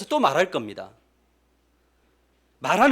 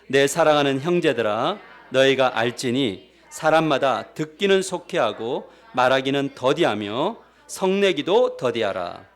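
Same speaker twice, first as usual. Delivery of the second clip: slow choral scripture reading; 2 semitones lower, 3 dB louder, slower than usual. Real, not acted. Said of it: "크게 읽읍시다".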